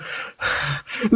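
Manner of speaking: mock worked-up breathing into the mic; imitated heavy breathing. Streamer mocking a caller's mic, heavy breathing. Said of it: "got all worked up and started".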